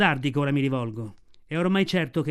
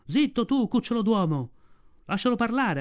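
wolves shouting; 6 semitones higher than usual. A narrator's reading. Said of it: "Alcuni gridarono".

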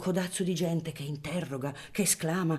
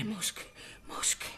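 soft, dazed repeating; mechanical mutter; 5 semitones higher, 10 dB quieter than usual. Acted. Dazed father repeating to himself, soft and absent. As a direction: murmur it absently, as if stunned. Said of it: "seguita a ripetere".

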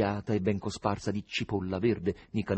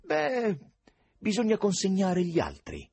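high-pitched, sweetly polite; same sweetness; 10 semitones higher, 3 dB louder than usual. A narrator's reading. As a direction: coax with gentle courtesy, pitched up. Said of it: "aggiunse con la stessa dolcezza".

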